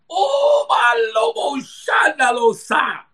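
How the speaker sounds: preacher's fervent outburst, drawn out; amped up. Real, not acted. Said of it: "I'm getting amped up here".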